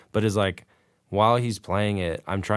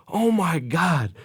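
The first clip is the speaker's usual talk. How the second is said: dismayed; 9 semitones higher, much slower than usual. Retold or imitated. Ed flustered after messing up.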